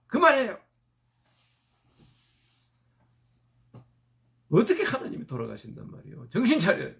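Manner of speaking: husband bursting out, loud and high; retold outburst, shouted with rising pitch; angry yell. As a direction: bellow it at a wife gone mad. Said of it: "소리를 버럭 지르고".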